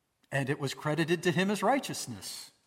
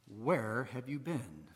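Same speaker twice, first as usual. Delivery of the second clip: accusing; 4 semitones lower, 6 dB quieter, slower than usual. Shown as a demonstration. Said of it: "asked in a very accusing sort of way".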